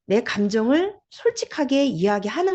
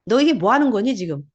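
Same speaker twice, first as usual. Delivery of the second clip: scolding. Retold or imitated. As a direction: scold like an annoyed parent. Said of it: "막 화를 표현한".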